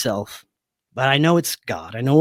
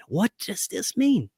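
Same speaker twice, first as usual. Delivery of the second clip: same question asked higher, slow and bewildered; puzzled repeat; 5 semitones higher, 6 dB quieter than usual. Retold or imitated. Waking up lost, asking again higher and bewildered. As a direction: raise it, pleading for an answer. Lost, confused morning after.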